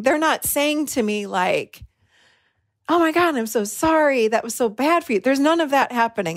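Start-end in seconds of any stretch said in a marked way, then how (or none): 2.9-5.2 mock sympathetic apology, starting high; gushing sympathy. Imagined staff consoling upset guest, gushing sympathy. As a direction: act out the commiseration she hoped for.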